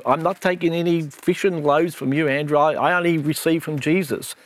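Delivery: high, indignant snooty voice; rude churchgoer voice. Retold or imitated. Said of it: "I go into this mode when I talk like this".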